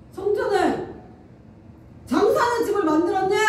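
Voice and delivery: Jesus scolding the traders, half-acted; mock angry shout. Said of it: "소리를 지르면서 갑자기 화를 내면서".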